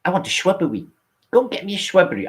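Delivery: high squeaky mock knight demanding a shrubbery; Knights Who Say Ni. Streamer quoting the silly knights to his chat, high hammed-up voice. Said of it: "we the knights to say".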